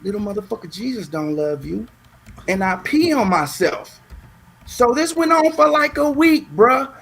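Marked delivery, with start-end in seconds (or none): 0.0-1.9 softer, lightly voiced taunt; mysterious taunting voice. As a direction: imitate an unseen voice in the night. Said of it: "I would hear this voice".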